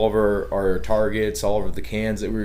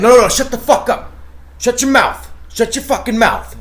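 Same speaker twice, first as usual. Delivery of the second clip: high, loud mock yell of a sheriff; mock angry sheriff; 13 semitones higher, 6 dB louder than usual. Imitating the sheriff yelling at the shooters, high mock shout. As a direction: play the sheriff snapping at them, high and put-on. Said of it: "And he's like".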